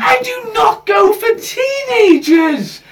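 high, slow indignant yell; indignant shout. Real, not acted. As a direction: shout it down in protest. Defending herself in a row.

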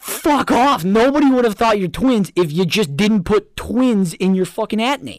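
high, loud exasperated telling-off; mock furious rant. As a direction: shout it at the screen in disbelief. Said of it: "I was like".

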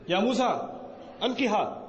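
stern, clipped order "Ya Musa, ألقها"; harsh command. Shown as a demonstration. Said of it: "what's the harsh way of saying it".

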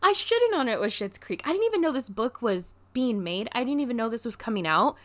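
high, breathless I-had-no-idea gush; gushing with surprise over the gift; excited. Retold or imitated. Retold excited self-talk.

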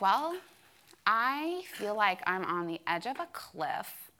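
dramatic. Retold or imitated. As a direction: play up the gloom like it's the end. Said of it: "being really dramatic".

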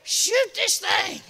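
preacher imitating the congregation hollering. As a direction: whoop then slow, drawn-out pleading shouts. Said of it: "you'll be hollering like John".

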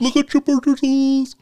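words stretched through a yawn. Real, not acted. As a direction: say it mid-yawn, slow and high. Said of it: "I'm sorry, I'm yawning".

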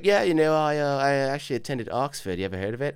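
name-dropping. Retold or imitated. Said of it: "all this guy's name drops".

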